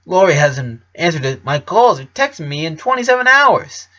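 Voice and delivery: put-on panicked boyfriend blurting it out; understated fright; mild terror. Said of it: "he explained, terrified".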